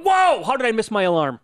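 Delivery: startled waking up. Retold or imitated.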